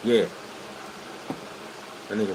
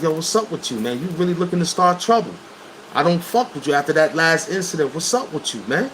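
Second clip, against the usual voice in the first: serious confrontation; 6 semitones higher than usual. Retold or imitated. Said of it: "it was real serious".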